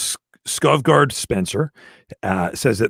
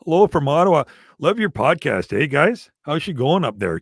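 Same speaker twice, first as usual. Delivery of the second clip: put-on playful Ottawa accent; lilting mock-Canadian greeting; 3 semitones higher than usual. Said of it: "do all of his accents".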